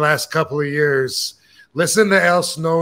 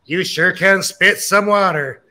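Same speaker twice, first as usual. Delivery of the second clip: wrestling promo; 3 semitones higher than usual. Retold or imitated. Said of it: "That's how my voice sounds to me".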